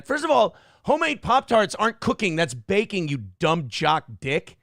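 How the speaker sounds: mocking exasperation at a dumb jock; exasperated rant. Real, not acted. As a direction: snap back with contempt. Ranting at Travis.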